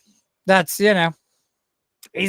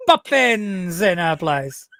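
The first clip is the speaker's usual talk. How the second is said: laughing; slower than usual. Real, not acted. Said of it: "I'm so bad at accents".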